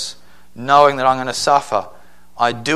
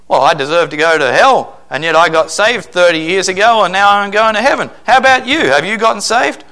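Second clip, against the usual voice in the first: rising, louder, insistent questions to the clerk; mock pastor witnessing; 4 semitones higher, 3 dB louder than usual. Retold pastor pushing a store clerk on salvation, insistent and rising. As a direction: press the clerk about being saved, climbing higher.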